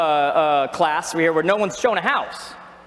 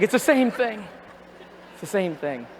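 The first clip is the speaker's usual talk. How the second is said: mock wailing; 4 dB quieter than usual. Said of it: "She's like".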